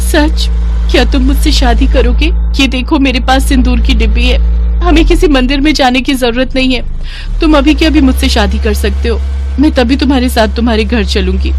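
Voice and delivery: acted girlish eagerness; eager witch bride. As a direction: press him eagerly to marry.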